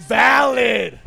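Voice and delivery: loud, drawn-out proclamation; hyped shout. Pretend. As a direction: call it out like a stamp of approval. Hyping up her claim.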